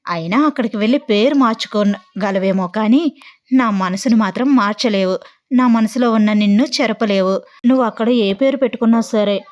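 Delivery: shy. Acted. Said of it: "Vasu సిగ్గుపడుతూ".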